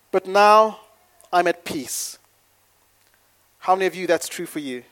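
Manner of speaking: slow, weighty stress on was and now; measured preacher cadence; before and after contrast. Real, not acted. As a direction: lean on was, then now. Dramatic before/after list.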